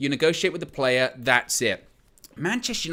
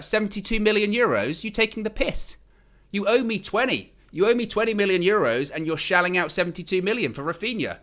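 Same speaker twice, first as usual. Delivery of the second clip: higher-pitched, acted outrage; mock indignation; 5 semitones higher than usual. Frankie to the club spending big while owing him, indignant. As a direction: confront them as the wronged player.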